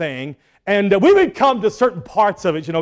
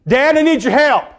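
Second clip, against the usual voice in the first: eager, higher asking voice; pleading son; 7 semitones higher, 4 dB louder than usual. Retold or imitated. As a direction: ask dad for help like a boy. Son asking father for help.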